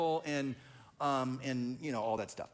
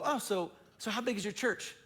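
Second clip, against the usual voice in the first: sizing-up question; 6 semitones higher than usual. Retold or imitated. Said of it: "Sizing me up".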